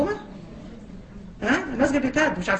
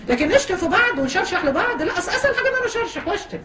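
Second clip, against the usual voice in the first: laughing scorn; 6 semitones higher than usual. Real, not acted. Mocking insults with laughter.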